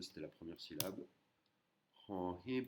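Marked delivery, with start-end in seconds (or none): 2.1-2.7 "Hon Hip" with an airy H starting each word; aspirated H. Shown as a demonstration. Teacher naming the Thai consonant, aspirated H. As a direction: push air from the throat on each H of "Hon Hip". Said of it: "c'est un H inspiré".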